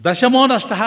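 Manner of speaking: high, loud tearful cry; crying boys. Acted. Boys crying out to the old man that one is lost. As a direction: wail it like a scared child. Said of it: "అందరూ కలిసి ఏడుస్తున్నారు".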